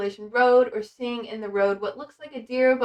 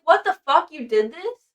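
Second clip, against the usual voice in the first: shocked outburst; 5 semitones higher, 4 dB louder than usual. Retold or imitated. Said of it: "And he's like".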